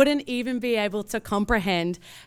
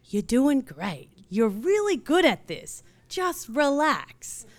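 slow, soothing pep talk; calm a frazzled friend down slowly; slow reassurance; 4 semitones higher, slower than usual. Retold or imitated. Rihanna reassuring, hands on shoulders.

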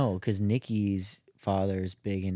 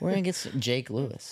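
higher, laughing southern impression; southern accent; 5 semitones higher than usual. Shown as a demonstration. Teasing Jake with an impression, laughing southern accent. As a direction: put on southern while laughing. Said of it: "like, a southern accent".

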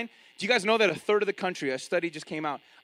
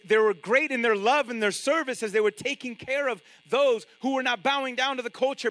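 ordinary talk

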